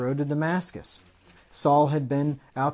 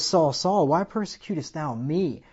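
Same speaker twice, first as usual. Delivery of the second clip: loud preaching call; 4 semitones higher, 6 dB louder than usual. Acted. Preaching climax.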